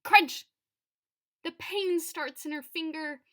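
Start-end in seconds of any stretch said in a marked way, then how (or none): 0.0-0.5 punchy storybook sound effect, much louder; sudden loud crunch. A narrator's reading. Narrator voicing the girl's smashing accident, sudden loud burst.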